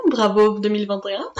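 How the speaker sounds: usual speaking voice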